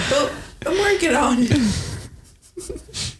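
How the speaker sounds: slow, laughing reply. Real, not acted. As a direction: drag it out through a laugh.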